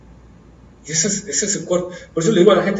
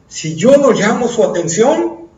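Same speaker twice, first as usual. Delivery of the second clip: desperate plea; 6 semitones higher, 7 dB louder, slower than usual. Acted. Bartimaeus voiced, desperate.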